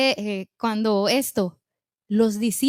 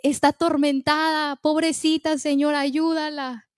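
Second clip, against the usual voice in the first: tearful plea; 3 semitones higher than usual. Acted. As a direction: beg for her daughter, lightly tearful. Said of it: "Llorando la mujer, gritando, clamando".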